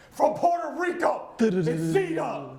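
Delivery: high, loud, slow Puerto Rican style announcement of Zeta; Spanish pronunciation. Acted. Caster proudly announcing his MVP from Puerto Rico in accent. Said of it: "one that I definitely love to pronounce".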